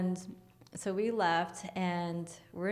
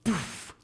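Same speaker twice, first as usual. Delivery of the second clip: puffed sound effect; airy mimicked poof; imitated poof. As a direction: puff it out like a light going off. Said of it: "it just went".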